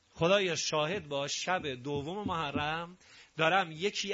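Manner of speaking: slow, measured oratorical delivery; solemn preaching. Real, not acted. Preacher warning the congregation on a Muharram night, solemn preaching. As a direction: declaim it gravely, drawing out key phrases.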